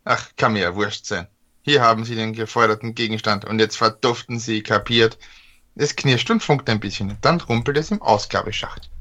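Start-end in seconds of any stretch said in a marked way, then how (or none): 0.0-5.2 rusty robot. Acted. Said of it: "knirscht die Roboterstimme".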